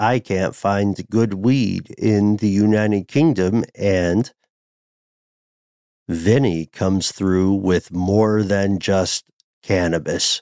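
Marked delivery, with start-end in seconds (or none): none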